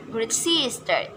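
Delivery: great sister with SISTER stressed; great sister, weight on the second word. Shown as a demonstration. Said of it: "the stress as in the second word".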